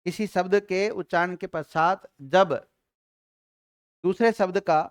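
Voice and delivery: slow, phrase by phrase dictation. Shown as a demonstration. Teacher dictating definition to students, slow and measured. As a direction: dictate it slowly so they can write. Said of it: "लिखिएगा".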